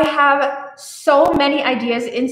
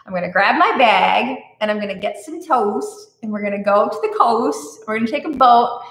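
put-on Australian accent; 2 semitones lower than usual. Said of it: "oversay our O's".

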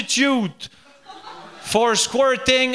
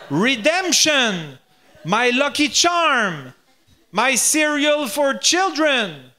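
slow gloating; slower than usual. Retold or imitated. Friend gloating over the injury.

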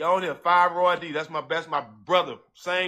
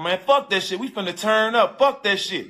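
higher, rowdy party talk; hyped-up friend; 4 semitones higher than usual. Retold or imitated. Friend in the background urging him to turn up, hyped. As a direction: imitate a friend rallying everyone.

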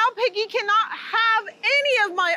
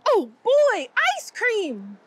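excited; 3 semitones higher, slower than usual. Acted. Excited character sees ice cream.

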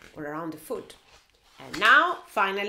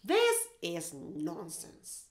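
grumpy bear voice; much slower than usual. Acted. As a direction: rumble it out like a doubtful bear. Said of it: "He goes like".

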